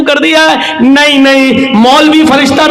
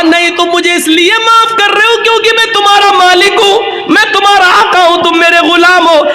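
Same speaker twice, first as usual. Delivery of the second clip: insistent caliph; 2 semitones higher than usual. Acted. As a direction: insist he is only forgiving from fear. Umar insisting to the slave.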